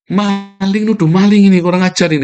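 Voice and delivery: high, loud outburst of indignation; angry accusation. Real, not acted. Speaker denounces those who accused him over donations, angry outburst. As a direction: raise pitch and volume in real anger.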